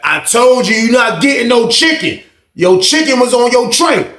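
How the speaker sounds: high-pitched, insistent retort; acted stern refusal. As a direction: fire back as the fed-up guard.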